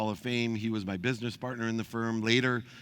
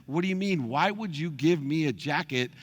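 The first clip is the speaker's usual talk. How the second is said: high, louder incredulous demand; indignant retold confrontation; 6 semitones higher, 4 dB louder than usual. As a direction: push back at the father, pitched up. Confronting dad on the phone.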